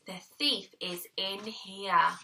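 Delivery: low, slow growly dog voice; dog's bark voice. Acted. Dog Nell warns them the thief is inside, growling. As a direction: say it like a dog barking the news. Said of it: "the bark meant".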